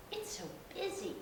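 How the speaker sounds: awed whisper. Acted. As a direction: breathe it out in wonder. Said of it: "gasped Peppa".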